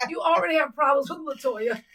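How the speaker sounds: loud, high emphatic refusal; shouting no. Real, not acted. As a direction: shout it down hard.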